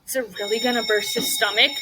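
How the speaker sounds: put-on quick, worried child's question with a rising end; anxious question. Shown as a demonstration. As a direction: show how scared the little boy sounds. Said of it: "He said it like a question, and he said it anxiously".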